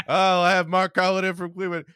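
high, hammed-up Cleveland radio voice; bad Cleveland accent. Chatter on local sports radio about lizards, in a high, bad Cleveland accent. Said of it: "I can't do a Cleveland accent".

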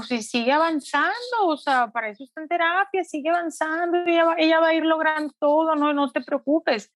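put-on a child comforting her mom; mother imitating her daughter's reassurance; daughter reassuring. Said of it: "me dijo".

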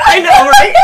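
high laughing cry; half laughing, half tearing up. Real, not acted. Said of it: "maybe I am gonna cry on the camera".

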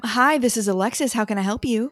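bright, polite phone greeting; a touch of a helpful receptionist; customer service voice. Shown as a demonstration. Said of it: "I have my customer server, service voice".

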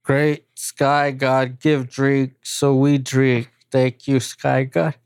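a hint of a grunting caveman. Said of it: "Caveman voice".

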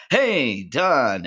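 loud, high, showy hello; big greeting. Acted. Sinatra rolling up to Rickles' table with a loud, showy greeting. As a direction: greet him like the star of the room.

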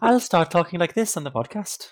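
high, loud, hammed-up Welsh lilt; exaggerated fake Welsh accent; mock Welsh accent. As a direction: lean into a singsong Welsh accent. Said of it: "I thought that was Welsh".

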